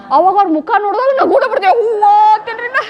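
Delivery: fast, laughing through the words; real laughter breaking in. Real, not acted. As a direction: giggle while confessing. Confessing laughter at funerals.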